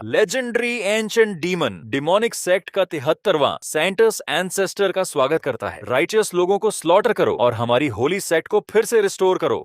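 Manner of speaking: high, reverent proclamation to the ancestor; demonic sect devotee. Acted. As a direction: hail your demon lord ceremonially.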